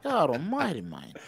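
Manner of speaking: exasperated Aussie, dropping away; Australian accent. Acted. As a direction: fade off in put-on Australian dismay. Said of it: "It's Australian V this morning".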